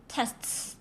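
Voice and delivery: tests breathed without voice; unvoiced tests. Shown as a demonstration. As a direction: contrast tests with no vibration. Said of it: "Voice it".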